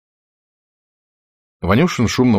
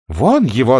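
shouted; 5 semitones higher, 5 dB louder than usual. Acted. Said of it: "закричали делегаты".

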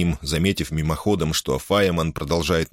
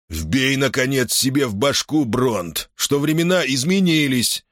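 higher, with deliberate pressure; emphatic insistence; 7 semitones higher than usual. A narrator's reading. Gar drives a warning into Bront, with insistent pressure. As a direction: press the point home in a raised pitch. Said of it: "с нажимом сказал Гар Аттен".

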